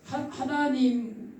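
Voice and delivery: usual speaking voice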